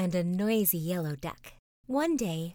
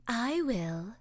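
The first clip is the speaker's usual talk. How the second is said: sleepy cat purring; 4 semitones higher than usual. Acted. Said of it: "purred the sleepy cat".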